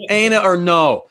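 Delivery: NEPA accent. Shown as a demonstration. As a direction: proudly show off the local accent. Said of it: "proud of my cold cracker accent".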